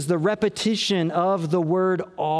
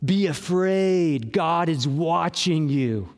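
slow, grim threat of being watched; ominous warning; 2 semitones lower, slower than usual. Shown as a demonstration. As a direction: pastor voicing God as a threat to fear, slow and ominous. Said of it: "the point of the psalm is not".

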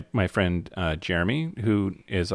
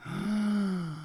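mock gasp; 12 semitones higher, 8 dB quieter than usual. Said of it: "And now I know who it is".

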